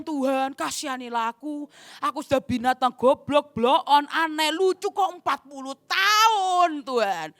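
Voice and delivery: a hammed-up sad monkey begging for mercy; mock crying monkey. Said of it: "Nangis monyetnya".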